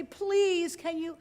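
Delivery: high, drawn-in plea on please; mock begging. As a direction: imitate someone begging. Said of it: "I don't have to beg you".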